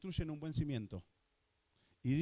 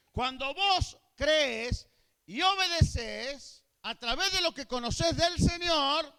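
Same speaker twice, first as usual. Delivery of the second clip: high, loud fervent preaching; preaching at full force; 9 semitones higher, 7 dB louder than usual. Acted. Preacher fires up the congregation about miracles, loud and high. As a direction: lift the church with a rising, loud sermon.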